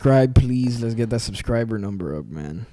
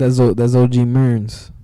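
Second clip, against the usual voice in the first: announcer voice; 7 dB louder, slower than usual. Pretend. Playful name announcement.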